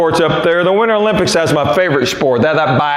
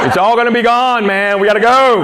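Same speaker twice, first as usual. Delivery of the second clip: acted-out pressing plea, higher voice; mock urgency; 5 semitones higher than usual. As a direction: urge a buddy along, pitched up. Acting urgent plea to reluctant buddy.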